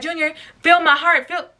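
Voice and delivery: frantic begging to her brother; frantic plea. Retold or imitated. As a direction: make him feel it, fast. Begging brother to feel heart.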